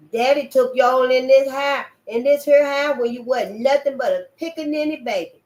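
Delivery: put-on high, loud scolding child voice; berating girl. Juanita berating Robert for stealing from her daddy, high and loud. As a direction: tear into him, righteous and shrill.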